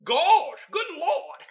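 high, loud, breaking with laughter; helpless laughter. Real, not acted. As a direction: gasp it out while cracking up. Cracking up at the joke.

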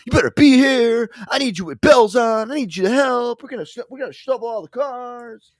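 high, loud mock yelling boss; imitating the angry cousin. Cousin calling at dawn, mock angry yelling. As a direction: bark orders like a furious cousin. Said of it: "He'd be like".

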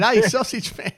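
loud, high hail across a room; mock hearty greeting. Retelling a fan calling out to him, loud and cheery.

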